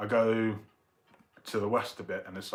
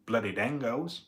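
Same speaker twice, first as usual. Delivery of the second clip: amateur Australian accent; attempted Australian accent; 3 dB louder than usual. Shown as a demonstration. Streamer showing the most Australian they can do, rough Australian accent. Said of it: "Most I can do in bloody Australian".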